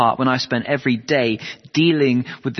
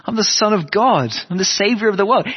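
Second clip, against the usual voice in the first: emphatic declaration; 7 semitones higher, 3 dB louder than usual. Retold or imitated. Jesus declaring who he is.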